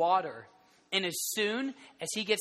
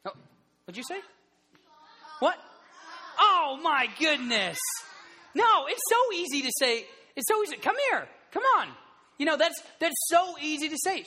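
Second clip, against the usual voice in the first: much higher, louder mock disbelief; hammed-up amazement; 8 semitones higher, 3 dB louder than usual. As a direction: play it up, as if it were the easiest thing ever. Mock amazement at an easy word.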